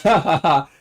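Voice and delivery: imitated "ha, ha, ha" laugh; spoken fake chuckle; mock laugh. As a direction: put on the teacher's laugh. Imitating the teacher laughing at her joke.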